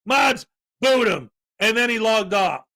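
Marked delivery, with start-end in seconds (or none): 0.0-1.3 mocking angry streamer. Imitating the streamer kicking him from chat, mock yell. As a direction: play the offended streamer calling for a ban. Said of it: "He's like".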